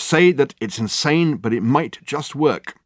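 slow, high, coaxing plea; eager urging. Acted. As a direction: coax her, stressing say. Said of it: "he urged".

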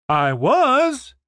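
high, loud quacking cartoon duck voice; Donald Duck voice. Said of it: "His voice sounded like Donald Duck's".

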